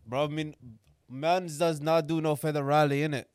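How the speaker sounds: lightly put-on London roadman accent, laid back. To co-host in the bow tie, a light London roadman accent. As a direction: talk like a roadman from the ends, a hint of London. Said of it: "You gonna keep the accent the whole show?".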